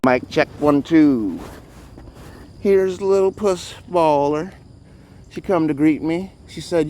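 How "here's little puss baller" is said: high, slow sing-song call to the cat; cooing at cat. Real, not acted. Greeting the cat with a high, slow coo. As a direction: coo it out sweetly to the kitten.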